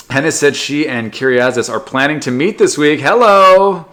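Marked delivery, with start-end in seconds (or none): 3.0-3.9 high, loud playful hello; sing-song loud hello at a love story; excited hello. Real, not acted. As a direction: call it out like a cheeky wink. Exclaiming at romance.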